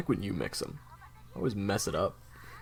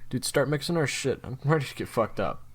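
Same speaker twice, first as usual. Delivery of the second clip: eager party call; 5 semitones higher, 5 dB louder than usual. Acted.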